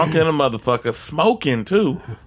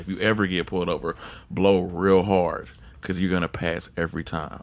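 lower, softer, quick confidential tip; uncle's advice; 8 semitones lower, 7 dB quieter than usual. Retold or imitated. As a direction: pass on a secret like a wise uncle. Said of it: "he was like".

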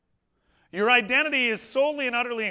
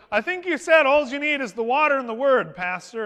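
eager excitement; 4 semitones higher, 5 dB louder than usual. Retold or imitated. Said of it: "There was an excitement and a passion".

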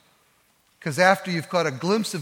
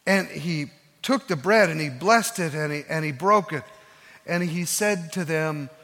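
ordinary delivery

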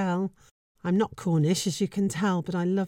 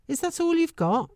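cheerful; 7 semitones higher than usual. Retold or imitated. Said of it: "He smiles and says very cheerfully".

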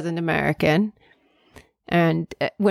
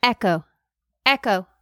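echo; 4 semitones higher, 3 dB quieter than usual. Pretend. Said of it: "Echoes come after them".

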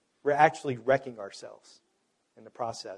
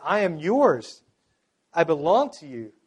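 a touch raised, heartfelt declaration to God; mild crying out; 2 semitones higher than usual. Acted. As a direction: quote it as a restrained cry to God. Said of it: "crying out to God".

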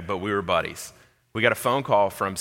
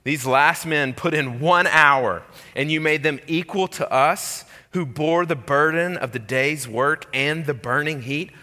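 complaining workers; 6 semitones higher, 4 dB louder than usual. Acted.

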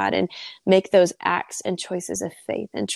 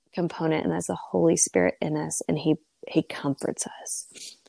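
tearful whisper; 3 semitones lower, 4 dB quieter than usual. Real, not acted. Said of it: "And I'm sorry for crying".

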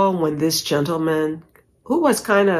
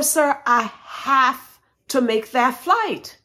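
high, slow, emphatic appeal; insistent plea; 8 semitones higher, slower than usual. Retold or imitated. Passenger told she will miss her flight, insistent plea. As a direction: plead it word by word. Retold pleading with airline agent.

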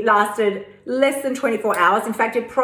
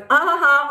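high taunting mock laugh, a bit louder; 5 semitones higher, 3 dB louder than usual. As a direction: jeer like a rude stranger pointing at you. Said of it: "points and laughs and goes".

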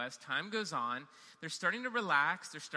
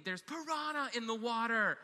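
mock panicked scream; 7 semitones higher than usual. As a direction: ham up the kids' panic. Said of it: "they are screaming".

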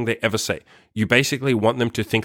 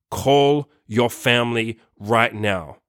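slow, firm, clear instruction; serious, direct command; much slower than usual. Retold or imitated. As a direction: lay down each word slowly and firmly. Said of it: "serious and direct".

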